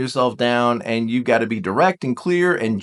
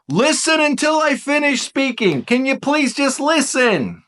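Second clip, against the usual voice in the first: higher, emphatic "listen until I finish speaking"; higher pleading insistence; firm request; 9 semitones higher than usual. Shown as a demonstration. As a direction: insist on being heard. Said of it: "demonstrating the request".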